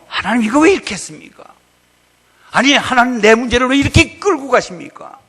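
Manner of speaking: high, loud, fast protest; complaining to God. Retold or imitated. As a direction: demand answers from God, aggrieved.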